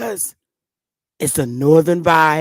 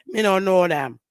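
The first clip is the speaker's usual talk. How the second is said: a hint of Jamaican accent; imitated Jamaican patois. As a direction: play a Jamaican local lightly. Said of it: "If I had to go around in Jamaica".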